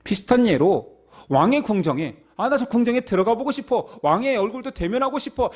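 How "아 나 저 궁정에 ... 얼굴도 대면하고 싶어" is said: eager visitor. Acted. Visitor longing to enter palace.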